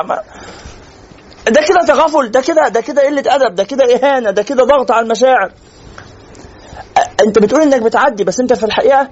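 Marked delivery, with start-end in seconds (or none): 1.5-5.5 raised exasperated listing. Real, not acted. Listing what that really is.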